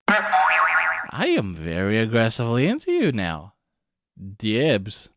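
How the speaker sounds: low, slow creepy demon voice. Acted. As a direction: drag it out low like a leering demon. Demon claims her.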